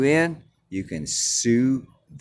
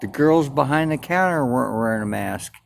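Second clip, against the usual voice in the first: angry rant; 6 semitones higher, 4 dB louder than usual. Retold or imitated. Retold rant at the cop.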